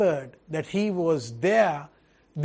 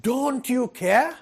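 mock plea; 5 semitones higher than usual.

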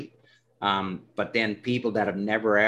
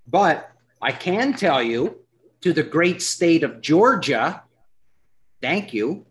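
excited shout-out; 6 semitones higher, 5 dB louder, slower than usual. Real, not acted. Shout-out to Georgia listeners.

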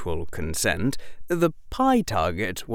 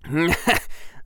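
a short mocking laugh; bully's laugh; 8 semitones higher than usual. A narrator's reading. Derek laughs at Harry sprawled on the mat, mocking. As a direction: laugh down at the fallen boy. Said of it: "Derek laughed".

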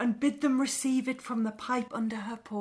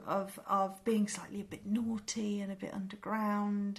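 hushed, secretive whisper; conspiratorial whisper; 2 semitones lower, 5 dB quieter than usual. Real, not acted. Gin as naughty and underground.

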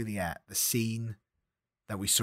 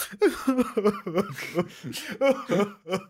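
long, high put-on cackle; clacker's laugh; 9 semitones higher, 3 dB louder than usual. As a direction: keep an exaggerated high laugh rolling. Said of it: "it cuts to him".

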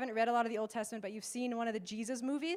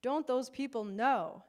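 retold pitying dismay; 5 dB louder, slower than usual. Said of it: "and thought, oh, poor Moses".

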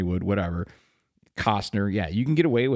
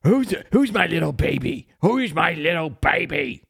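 put-on cooing sing-song voice to a baby; baby talk; 6 semitones higher, 4 dB louder than usual. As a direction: coo at the baby like a proud dad. Cooing at a baby in a mock scene.

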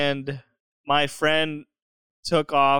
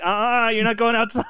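mock bossy ex, pitched up; scolding refusal; 7 semitones higher, 4 dB louder than usual. Girl that dumped him stops him going outside, mock scolding. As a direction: imitate someone firmly forbidding it.

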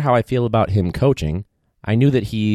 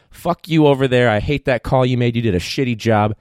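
mock ref insult; 3 semitones higher than usual.

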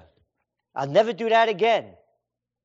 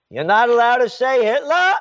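louder mock scold; mock official scolding; 2 semitones higher, 5 dB louder than usual. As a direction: scold like a petty ruler. Mocking rulers' voice.

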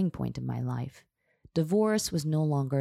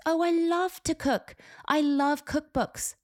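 high, drawn-out enthusiasm; delighted gushing; 13 semitones higher, slower than usual. A narrator's reading. Hairstylist hearing of client's cookbook, gushing with delight. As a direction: gush over it, pitched well up.

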